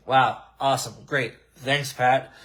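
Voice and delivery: deadpan "Wow. Awesome. Great." with fake praise; flat, mocking gratitude to Pat; sarcastic thanks. Real, not acted. Sarcastic reaction to ticket promo.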